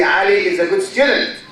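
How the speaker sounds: "is a" passed over quickly, weight on "Ali" and "good student"; quick, linked "Ali is a good student" with content words stressed; natural sentence stress. Shown as a demonstration. Teacher models correct reading for students, natural sentence stress. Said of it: "I say".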